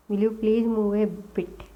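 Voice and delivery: slow, every word spaced out; slow dictation. Shown as a demonstration. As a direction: read it out slowly for the students. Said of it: "इसको ए बोला जाता है".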